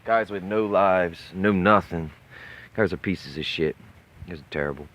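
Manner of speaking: yelling furiously at the chat; loud angry rant; angry shouting. Real, not acted. Drunk rant at chat rivals.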